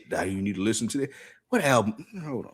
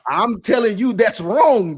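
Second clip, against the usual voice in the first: laughing protest; 10 semitones higher, 5 dB louder, slower than usual. Real, not acted.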